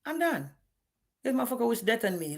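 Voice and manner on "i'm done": retold cutoff. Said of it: "I said".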